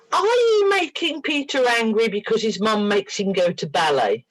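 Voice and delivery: put-on mild baby-talk, high on the opening; retold playful questioning of a little creature; talking to tiny creature. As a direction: lightly coo a silly question. Questioning the tiny imagined angry creature.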